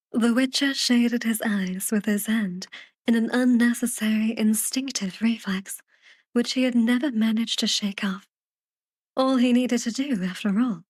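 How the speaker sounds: measured, unhurried audiobook reading; lightly storytelling, phrase by phrase; story narration. A narrator's reading. Reads the story narration aloud.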